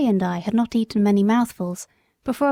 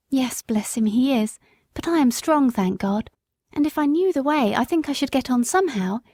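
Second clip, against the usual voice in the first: lightly raised pleading mother's voice; a poor mother begging help, gently higher; young country mother; 3 semitones higher than usual. Acted. Woman's voice.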